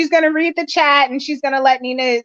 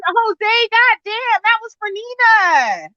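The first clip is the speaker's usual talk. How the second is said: exasperated outburst; 7 semitones higher, slower than usual. Real, not acted. Chat spoiled the quiz.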